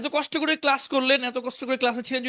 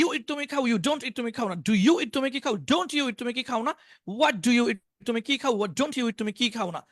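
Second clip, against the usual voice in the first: rhythmic drill, English phrase then Bengali meaning; model recitation. Shown as a demonstration. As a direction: recite the tense table in a steady patter. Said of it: "এইভাবে শোনাবেন".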